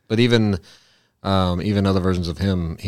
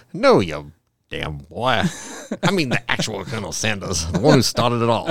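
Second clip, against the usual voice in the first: gruff villain. Retold or imitated. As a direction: growl it like an angry old man. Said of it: "He's like".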